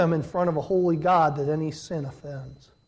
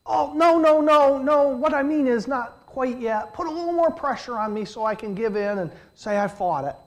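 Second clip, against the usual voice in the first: high, coy mock protest; hammed-up voice of someone eager to give in; mock sinner's excuse; 6 semitones higher than usual. Preacher mocking the congregation's attitude toward sin, coy mock protest. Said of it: "sort of like".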